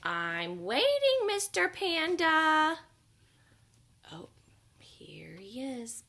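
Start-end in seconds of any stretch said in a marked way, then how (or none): 0.0-2.8 slow, louder penguin calling; patient penguin. Acted. Penguin calls the absent panda, slow and patient. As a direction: draw it out, still waiting.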